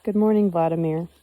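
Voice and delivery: loud, happy greeting called across; joyful call. A narrator's reading. Anastasia calling back joyfully to Vladimir. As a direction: call out gladly in reply. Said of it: "she joyfully called out in response".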